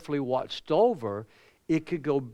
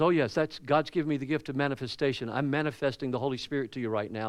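mimicking the manifester; 2 semitones lower, faster than usual. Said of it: "He goes".

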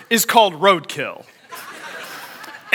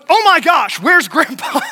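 retold alarm; 5 semitones higher than usual. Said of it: "my next thought was".

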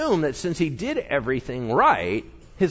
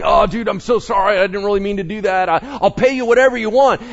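higher, louder, fast panicked pleading; stammering panic; 7 semitones higher, 7 dB louder, faster than usual. Retold or imitated. King Hezekiah pleading with the Assyrians, panicked stammer. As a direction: beg the bully in a rush. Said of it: "King Hezekiah starts stammering".

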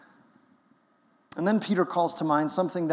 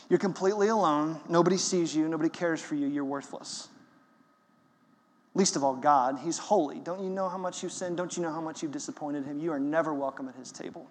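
enemy's voice; 4 dB quieter than usual. Retold or imitated. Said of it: "This is how the enemy sounds".

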